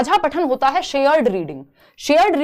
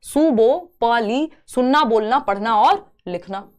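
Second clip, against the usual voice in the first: slow emphasis; slower than usual. Shown as a demonstration. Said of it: "ये simple एक फंडा हमने बनाया".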